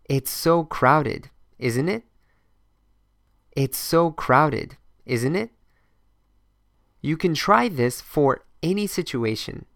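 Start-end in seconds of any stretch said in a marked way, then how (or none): 0.1-5.5 slow repeat-after-me drill, stressing so. Shown as a demonstration. Teacher repeating the drill line for students, slow. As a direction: drill it slowly three times.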